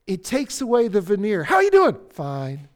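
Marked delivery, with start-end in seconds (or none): 1.4-2.0 loud, high-pitched chirpy hello; fake cheery greeting. Churchgoer hiding behind a veneer, loud fake-cheery greeting. 2.1-2.7 masked reply. Acted.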